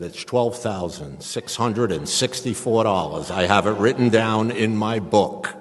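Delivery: slow, loud tallying of a debt; exacting father. Father telling son the exact debt, emphatic and exacting. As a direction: hammer out each figure loudly and slowly.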